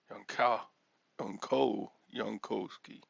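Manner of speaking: halting "Yanka-, Yanko-, Yankovsky" built up syllable by syllable; sounding it out. Shown as a demonstration. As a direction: stumble toward "Yankovsky" in pieces. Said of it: "how do you pronounce your last name".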